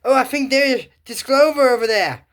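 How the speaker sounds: high, loud imitation of a cartoon heroine; Sophia. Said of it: "do you hear Sophia saying".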